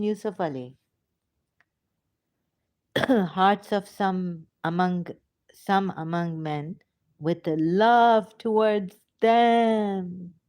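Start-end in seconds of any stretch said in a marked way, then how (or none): 3.0-10.3 slow, swelling declamation, louder on the close; scripture recitation. Acted. Speaker reading Ibrahim's prayer aloud, slow emphatic recitation. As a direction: draw out the last words loudly.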